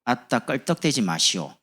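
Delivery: slow Jeolla scolding with 아따; 전라도 사투리로 천천히; Jeolla dialect. Shown as a demonstration. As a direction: brush someone off in Jeolla dialect. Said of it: "귀찮게 하지 마시오".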